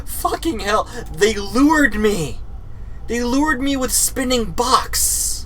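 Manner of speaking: high, slow laughing complaint; mock-betrayed laughing whine; teary laughing outrage. Real, not acted. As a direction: wail it through tears of laughter.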